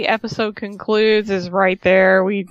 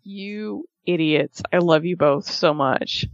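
lower, slow, affectionate; tender gushing; 4 semitones lower than usual. Retold or imitated. Host gushing at the couple, tender. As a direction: coo it fondly.

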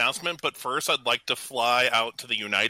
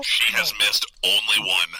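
hands cupped over mic; 5 semitones lower than usual. Real, not acted. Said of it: "all of a sudden sound like a nineteen thirties radio".

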